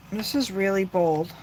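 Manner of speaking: tense words on a held breath; holding breath. Real, not acted. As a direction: speak while holding her breath. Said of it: "I'm holding my breath".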